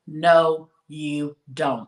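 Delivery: slow, deliberate no, each word set apart; said real slow. Shown as a demonstration. Telling listeners they need not tell everyone, slowly. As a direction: lay it down slowly so it sinks in. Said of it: "gonna say this real slow".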